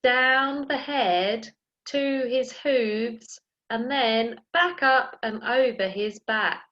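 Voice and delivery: slow handwriting guide; slow instructions. Shown as a demonstration. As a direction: say it slowly as you trace. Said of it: "we're going to go".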